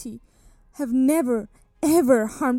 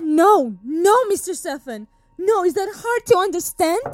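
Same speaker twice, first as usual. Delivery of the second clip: louder, higher, exasperated no; firm refusal; 4 semitones higher, 3 dB louder than usual. Acted. Accused woman refusing to confess, louder and exasperated. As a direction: refuse him flat out, exasperated.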